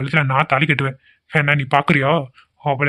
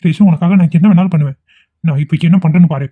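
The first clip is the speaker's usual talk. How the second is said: dramatic declaration; 2 semitones higher, 6 dB louder than usual. Acted. Vikram overplays his devotion to Reshu, louder. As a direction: play the desperate lover for show. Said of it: "drama நல்லா பண்ண ஆரம்பிச்சுட்டான்".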